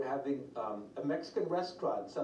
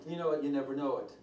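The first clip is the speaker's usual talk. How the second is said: fast, still laughing; 4 dB louder, faster than usual. Real, not acted. Preacher still laughing to the congregation, laughing speech. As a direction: talk through the tail of a laugh.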